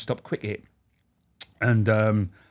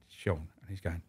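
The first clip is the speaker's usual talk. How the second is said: whisper; 7 semitones lower, 14 dB quieter than usual. Real, not acted. Mate behind him, aside.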